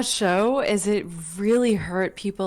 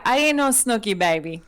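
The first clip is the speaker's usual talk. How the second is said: put-on sassy New Jersey accent; brassy Jersey girl accent. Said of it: "get into my Jersey accent".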